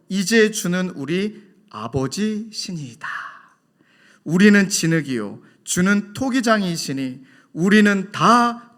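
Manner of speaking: slow, solemn reading of the verse; scripture recitation. Acted. Preacher reciting Isaiah to the congregation, slow and solemn. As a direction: recite it slowly as holy words.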